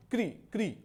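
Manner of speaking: "क्री, क्री" with the ree sound; sound drilled. Shown as a demonstration. Teacher drills students on ri, "क्री, क्री" said separately. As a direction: say "क्री, क्री" as two separate kree syllables. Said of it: "री का प्रयोग होता है".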